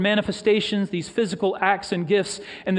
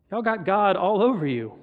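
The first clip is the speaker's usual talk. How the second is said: Alabama vernacular. Acted. The world looking at believers, in a light Alabama accent. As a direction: echo the Alabama woman's turn of phrase. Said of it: "in her best Alabama vernacular".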